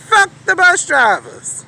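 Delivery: high, loud, slow "Fuck the bus drivers."; shouted repeat. Retold or imitated. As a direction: belt out "Fuck the bus drivers." slowly, every word hit. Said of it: "and I did just like that".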